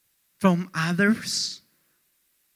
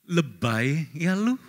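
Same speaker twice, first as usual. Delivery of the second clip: slower repeat; 5 semitones lower, 5 dB quieter, slower than usual. Retold or imitated.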